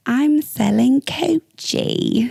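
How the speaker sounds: a hint of a rapper, slow and drawn out; lightly voiced rapper impression, stretching every word. To the friends, imitating a rapper, slow and teasing. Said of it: "In my Sukihana voice".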